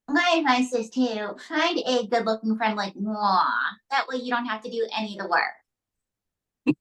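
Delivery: a hint of a sassy girl voice; smug puppet girl; Valley girl puppet voice. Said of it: "what advice do you have, May?".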